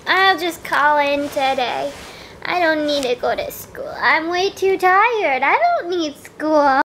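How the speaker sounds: put-on grumpy kid muttering slowly. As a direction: sulk under the covers. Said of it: "I'm just grumpy".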